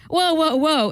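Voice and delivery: quoted startled man crying whoa; a man caught off guard at the urinal; sudden alarmed whoa. Retold or imitated. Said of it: "I hear".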